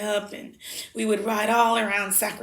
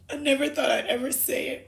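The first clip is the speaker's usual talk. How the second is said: 1 laughing; 4 semitones higher than usual. Real, not acted. Forgiving grandmother, emotional.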